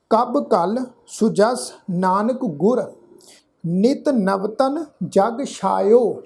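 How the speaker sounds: slow, measured verse with drawn-out vowels; scripture recitation. Shown as a demonstration. Teacher reciting Gurbani to the congregation, slow measured recitation. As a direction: recite each phrase slowly, pausing between.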